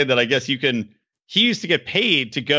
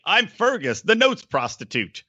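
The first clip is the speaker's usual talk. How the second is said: put-on New Zealand accent; 4 semitones higher, slower than usual. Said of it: "that wasn't a good New Zealand accent".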